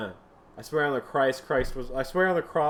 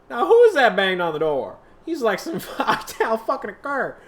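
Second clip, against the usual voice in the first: shrill outraged voice; 9 semitones higher, 8 dB louder than usual. Acted. Startled reaction to the banging.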